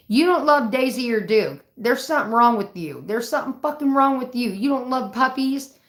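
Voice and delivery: loud, accusing. Retold or imitated. Mock accusing her dad.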